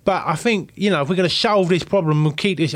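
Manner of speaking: lightly played hard-talking chef; Ramsey. Customer pressing owner to solve the problem, lightly played tough chef. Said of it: "I went all Ramsey on him".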